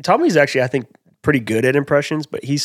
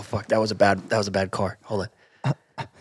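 normal talking voice

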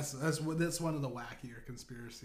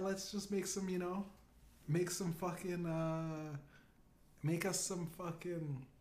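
higher, breezy brush-off; mock Obama deflecting; 3 semitones higher than usual. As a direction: wave it off casually, a bit high.

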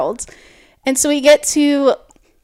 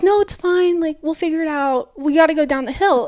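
higher, lightly voiced soothing; retold reassurance; 4 semitones higher than usual. Brother to crying sister before the hill, reassuring. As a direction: gently brush off her worry, imitating brother.

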